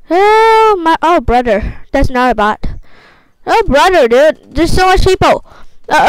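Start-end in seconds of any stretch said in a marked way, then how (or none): 0.1-1.8 high loud startled gasp of a word; a jolt of real surprise; shocked at the crowd; surprised oh. Real, not acted. Crowd of players appears.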